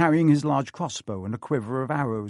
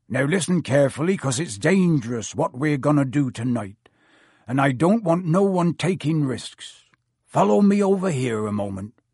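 a hint of a big serious woodsman; gruff gamekeeper. Hagrid warning the students at the forest, firm.

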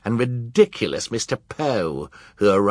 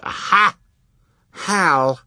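put-on excited baby cry; 11 semitones higher, 6 dB louder, much slower than usual. A narrator's reading. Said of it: "Sonny said".

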